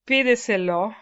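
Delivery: "pídeselo" stressed on PÍ; stress on first syllable. Shown as a demonstration. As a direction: hit PÍ in "pídeselo", fourth from last. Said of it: "fourth to the last syllable is stressed".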